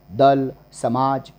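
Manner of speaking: usual speaking voice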